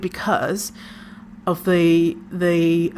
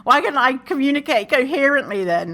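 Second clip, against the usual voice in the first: frustrated self-talk; 5 semitones higher than usual. Retold or imitated. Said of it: "afterwards you're like".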